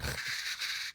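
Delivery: noisy, voiceless rattle of chattering teeth; rattling mouth noise; imitated chattering toy. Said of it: "chatter things".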